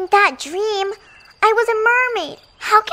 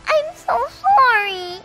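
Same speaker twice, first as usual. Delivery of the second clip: tearful; 4 semitones higher, 4 dB louder, slower than usual. Acted. Reunited daughter apologizes to mother.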